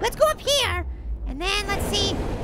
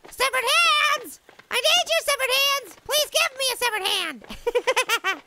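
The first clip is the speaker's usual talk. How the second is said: mock pleading; 2 semitones higher, slower than usual. Jokingly begs game for hands.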